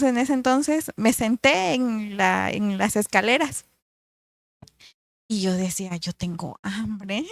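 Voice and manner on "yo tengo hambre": soft, slow moan of hunger; whiny hunger complaint. Retold or imitated. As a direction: sulk that you're hungry, dragging it out. Hungry during a fast, complaining. (queja lenta y suave de hambre)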